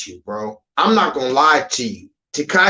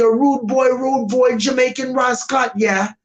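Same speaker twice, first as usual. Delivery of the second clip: higher mock Jamaican patois accent; Jamaican version of a rapper; 6 semitones higher than usual. Mocking a rapper in Jamaica with a higher Jamaican accent. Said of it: "if he goes to Jamaica".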